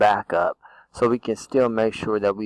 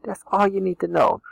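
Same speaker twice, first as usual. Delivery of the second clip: That's all you need to know, sung out much higher; teasing high repeat; 10 semitones higher than usual. Acted.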